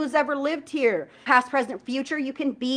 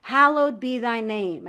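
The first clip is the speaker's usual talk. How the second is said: felt prayer; slower than usual. Shown as a demonstration. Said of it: "I'm feeling this".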